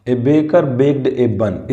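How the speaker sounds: slow, every word spaced out while writing; slow dictation. Shown as a demonstration. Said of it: "यहाँ पर ब आ गया".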